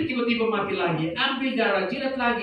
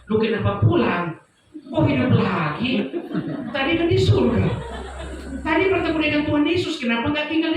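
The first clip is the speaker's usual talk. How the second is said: laughing disbelief; 5 semitones higher than usual. Retold or imitated. Amused at his own revival.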